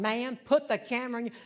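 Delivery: fast, fiercer clipped-off order. Retold or imitated. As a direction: cut her off with a sterner command. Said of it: "in even fiercer tone".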